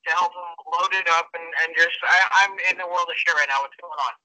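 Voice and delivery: tinny voice over a speakerphone; muffled speakerphone call; speakerphone sound. Real, not acted. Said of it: "if the sound is a little off".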